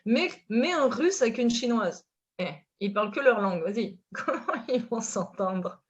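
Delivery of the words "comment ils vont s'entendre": slow words breaking into a real laugh. Real, not acted. Joking about a couple without a shared language, laughing. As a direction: laugh through the question.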